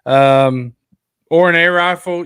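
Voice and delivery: talking through hiccups; hiccupping mid-sentence. Real, not acted. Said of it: "I got the hiccups".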